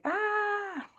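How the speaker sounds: hammed-up frantic cry to Spirit; panicked scream. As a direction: shriek like you're fleeing in terror. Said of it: "run away screaming".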